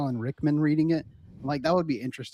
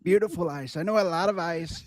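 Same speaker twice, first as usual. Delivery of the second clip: Trump impression; 3 dB louder than usual. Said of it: "you think ice?".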